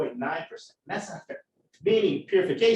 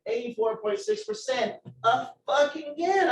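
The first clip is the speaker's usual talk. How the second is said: raised-pitch retold frustration; pissed off; 6 semitones higher than usual. Student reading the same bad lab result, pissed off. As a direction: read the result out, fed up. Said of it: "I'm, like, pissed".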